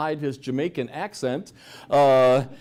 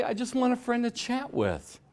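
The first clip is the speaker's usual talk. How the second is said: online dating scammer; 11 semitones higher than usual. Retold or imitated. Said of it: "they may say".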